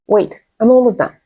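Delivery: friendly falling tune on "Wait, I'm almost done."; polite and pleasant, easing the interruption; friendly, nice. Shown as a demonstration. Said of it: "you sound more like a nice person".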